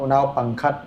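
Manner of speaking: now now ปังคัด drawn out slowly with a rise at the end; slowed careful repeat. Shown as a demonstration. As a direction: spell out now ปังคัด slowly, ending upward.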